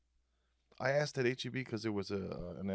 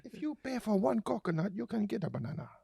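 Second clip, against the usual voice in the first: much higher put-on announcer voice through laughter; silly announcer voice; 13 semitones higher, 4 dB louder than usual. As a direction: ham up a goofy store announcement. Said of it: "different ethnic accents for each subject".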